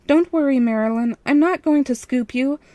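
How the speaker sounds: shouting through a door. A narrator's reading. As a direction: call through the door to be heard. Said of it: "I shouted through the door".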